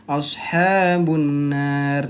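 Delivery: ashabun nar run together, nasal not held; "Ashabun nar" clipped short without the two-beat hum; wrong, rushed reading. Shown as a demonstration. Teacher to students showing the wrong way, rushed. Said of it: "Nah, itu kurang tepat".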